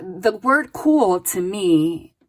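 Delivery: slow down and lean on the word cool to muse on it; slow, drawn-out emphasis on cool. Shown as a demonstration. Reader dwelling on a card word for the viewer, slow and deliberate. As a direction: drag out cool thoughtfully. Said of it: "this is how they're having me interpret it".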